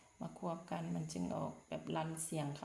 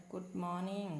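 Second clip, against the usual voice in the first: slow model phrase; much slower than usual. Shown as a demonstration. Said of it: "teacher models phrase".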